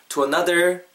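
"to another" with the stress on "-NO-" of "another"; light "to", then lean on the middle of "another"; stress inside another. Shown as a demonstration. Teacher modelling for learners, "another" stressed on its second syllable. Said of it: "강세 넣으시고".

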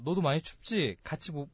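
considerate, easy-going invitation; speaking nicely. Shown as a demonstration. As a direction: ask gently, looking after the other person. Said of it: "되게 말을 이쁘게 잘하니까".

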